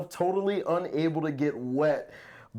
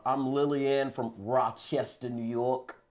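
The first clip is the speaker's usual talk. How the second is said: bad New York accent; 3 semitones lower than usual. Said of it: "That was horrible".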